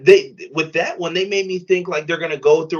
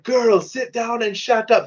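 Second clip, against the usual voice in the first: higher, slow sassy wrestler voice; imitating Prince Nana; 9 semitones higher, slower than usual. Wrestler telling a fan to sit down, slow and high. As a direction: drag it out like a heel telling a fan off. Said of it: "He's like".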